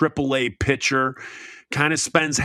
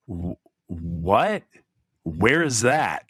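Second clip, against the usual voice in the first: imitating; 6 semitones lower, slower than usual. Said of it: "And you're like".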